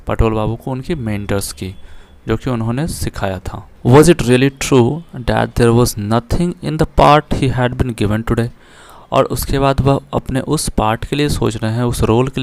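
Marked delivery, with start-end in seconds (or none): 3.9-8.5 slow, careful reading aloud of the English line; slow text reading. Shown as a demonstration. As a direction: read each word out deliberately for the class. Reads English text aloud slowly. (धीमे, साफ़ अंग्रेज़ी पाठ-वाचन)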